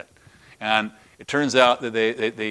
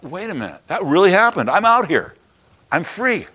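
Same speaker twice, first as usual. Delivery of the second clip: amazed realization; 6 semitones higher than usual. Retold or imitated. Peter realizes he is free.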